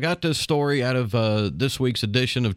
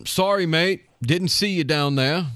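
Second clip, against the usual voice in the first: put-on UK accent; 3 semitones higher than usual. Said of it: "my poor attempt at, at a, uh, UK accent".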